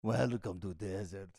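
put-on movie Arab accent. Echoing a friend's film parody, slow mock Arab accent. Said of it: "fucking movies with the Arabs".

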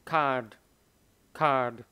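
card with a light final d; card with the d barely touched; card, final d said very gently; soft final d. Shown as a demonstration. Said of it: "Cái âm D nó rất là nhẹ".

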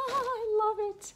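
high laughing "I love it", slowed down; laughing delight. Real, not acted. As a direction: laugh it out with glee.

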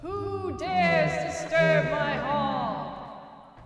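slow, booming rasp from the grave; a raspy ghost king guarding his hall; ancient rasping undead king. Pretend. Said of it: "Sound like she needs some cough drops".

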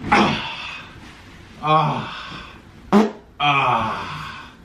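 drawn-out falling sigh; long sigh. Real, not acted. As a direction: let out a long "ah", settling onto a bed. Trying out the hotel bed.

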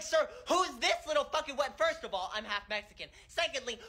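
mock-indignant inner rant, sassy. Told off by the man in back, a touch of sassy outrage. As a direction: fire off an imagined comeback with mild outrage. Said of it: "I mean, like, mentally, I said".

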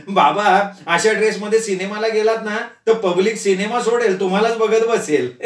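laughing while joking; teasing laugh. Acted. Daughter teases her father about the costume, laughing. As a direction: tease him through laughter.

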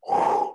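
sudden audible whoosh of air; imitated rush of breath. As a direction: act out breath rushing in. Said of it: "I felt this, like, breath enter me".

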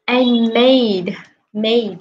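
slow, careful "made" with a long vowel; teacher modeling. Shown as a demonstration. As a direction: say "made" slowly, stretching the vowel. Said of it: "cô đọc lại giùm con mấy cái từ này".

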